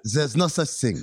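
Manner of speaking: mock French accent, imitating the actor. Quoting the American Ninja actor, mock French accent. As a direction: put on a light French accent. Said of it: "he's doing a French accent".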